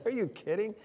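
a touch of mock alarm; incredulous quote. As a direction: act out disbelief at the idea. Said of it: "And we're saying".

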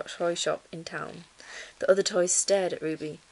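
measured bedtime-story reading; story narration. A narrator's reading. Reading a children's book to listeners, story narration.

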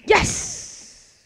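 slow whispered Kadoosh; whispered triumph. Real, not acted. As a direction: hiss the win quietly. Quiet win, whispered catchphrase.

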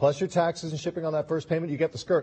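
upbeat sales pitch, pushing the deal; home shopping host. Acted. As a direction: sell it like live TV shopping.

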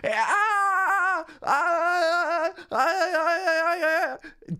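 Charles shriek. Retold or imitated. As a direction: squeal like the pop-up character. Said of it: "Charles pops up and he's like".

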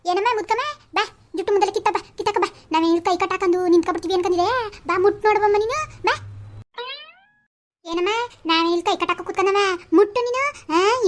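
defiant high taunt; angry challenge. Acted. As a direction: goad the old woman to come at her. Quarrel, daring the old woman.

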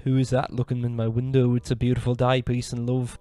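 lightly put-on Liverpool accent; a famous drummer. Vlogger reads a star's deer caption, mock Liverpool accent. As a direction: read it as a mild Liverpool impression. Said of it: "it says".

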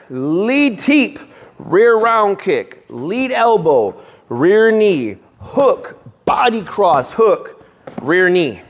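firm punchy combo callout; coach calling combos. Shown as a demonstration. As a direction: bark each strike name crisply. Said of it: "coach calls combo to students".

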